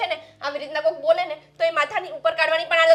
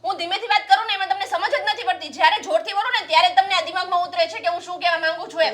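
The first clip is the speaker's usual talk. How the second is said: loud. Acted. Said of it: "થોડીક ધીરેથી વાત કરીશ તોય સંભળાય".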